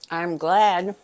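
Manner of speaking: talking with mouth full; words round a bite of food. Real, not acted. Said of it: "I don't wanna talk with my mouth full".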